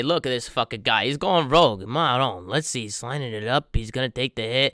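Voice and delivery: hushed golf commentary; golf commentator. Pretend. Mock golf commentary on putt.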